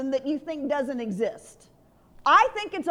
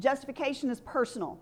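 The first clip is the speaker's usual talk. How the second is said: call to repeat; 3 dB quieter, faster than usual. Shown as a demonstration.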